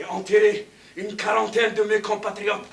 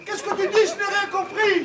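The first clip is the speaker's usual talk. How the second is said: shouting over noise; 8 semitones higher than usual. Acted. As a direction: yell to be heard. (crier pour se faire entendre)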